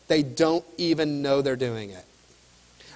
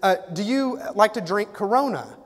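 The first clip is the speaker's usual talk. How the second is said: salesman's pitch; 5 semitones higher than usual. Retold or imitated. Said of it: "He goes".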